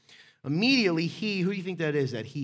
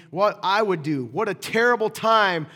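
loud, raised, hammed-up alarm; panicked complaint; 3 semitones higher, 10 dB louder, slower than usual. Disciples in the storm without Jesus, loud panicked complaint. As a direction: wail it over a raging storm.

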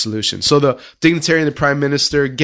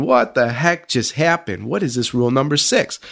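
puzzled thought. Retold or imitated. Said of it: "the dignitary is thinking".

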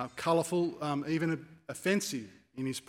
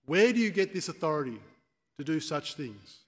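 raised, challenging interrogation; grilling; 3 dB louder than usual. Acted. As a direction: demand an answer like an interrogator. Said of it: "being questioned, grilled".

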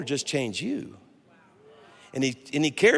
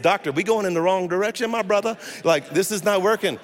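higher-pitched comic objection to the doctor; mock protest; 3 semitones higher than usual. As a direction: retell it as a playful complaint. Acted protest to the eye doctor.

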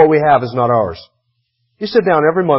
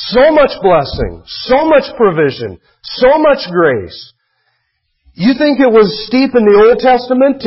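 higher-pitched, emphatic sermon delivery; impassioned preaching; 6 semitones higher than usual. Real, not acted. Pastor urging congregation to give from gratitude, preaching fervently. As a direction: press each point home to the congregation.

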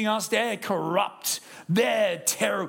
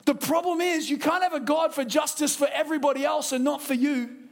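full preaching; 6 semitones higher than usual. Acted.

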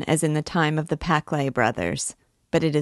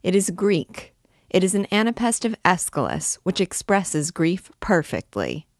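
impudent; 4 semitones higher than usual. A narrator's reading. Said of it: "looked up at Claude with impudent eyes".

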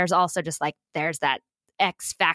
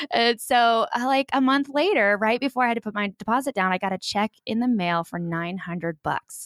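ordinary delivery

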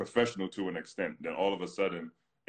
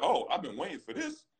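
pitched higher, relishing the challenge; eager to fight; 10 semitones higher than usual. Retold or imitated. Player answering a rival's dare, eager and pitched up. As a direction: savour the moment the fight comes. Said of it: "Yo, you wanna dance?".

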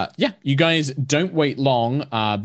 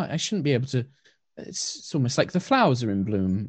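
gentle elf priestess; 3 semitones higher than usual. Acted. Blind elf asking her dog to lead her to the guests.

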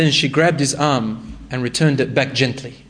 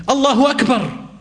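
high ringing call of Allahu Akbar; battle cry; 9 semitones higher than usual. Retold or imitated. Young fighter calls out to the army, a high ringing battle cry. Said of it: "He would call out like that".

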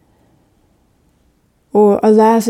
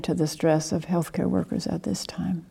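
whisper; 7 dB quieter than usual. Real, not acted. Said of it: "unvoiced line".

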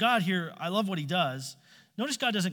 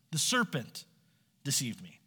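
whiny excuse; 2 semitones lower than usual. Retold or imitated. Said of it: "I'm the victim".

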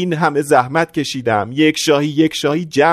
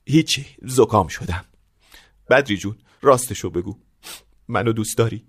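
tearful; 3 semitones lower, 3 dB quieter than usual. Acted.

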